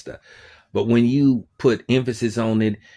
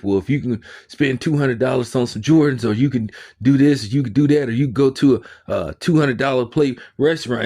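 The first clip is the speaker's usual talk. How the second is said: higher-pitched mock nagging; imitated pushy guilt-tripping; 4 semitones higher, 3 dB louder than usual. Preacher pushing people to give to church, mock nagging. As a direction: pile up the examples in a raised, nagging imitation.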